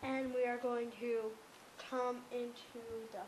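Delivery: talking with a retainer in; slightly slurred retainer speech; wearing a retainer. Real, not acted. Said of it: "'cause I have my retainer in".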